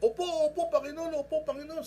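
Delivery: high loud anxious reply; frantic assent from the falling man; eager desperate yes. Retold or imitated. Desperate man answering God.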